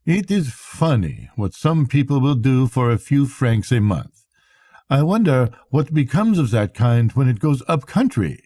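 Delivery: a foreign captain speaking with exact, bitter diction; lightly voiced Swedish captain, precise and sour; precise, bitter Swede. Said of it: "speaking English with great precision and considerable bitterness".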